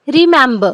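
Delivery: Remember with the mem syllable loud; stress on MEM. Shown as a demonstration. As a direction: punch the middle syllable of Remember. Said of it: "so it's mem". (Remember में मेम पर ज़ोर)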